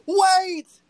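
sudden high shouted wait; yell. Retold or imitated. Burr yelling to stop the duel, high and loud. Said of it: "you just hear him yell".

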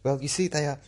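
ABC podcaster. Shown as a demonstration. Demonstrating how ABC podcasters talk, mannered halting voice. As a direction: parody a public-radio podcaster, breaking up the phrases. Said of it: "a demonstration of how an A B C podcaster talks".

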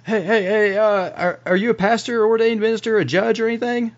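high, insistent character voice; John, urgent asking. Acted. Game master plays John asking stranger.

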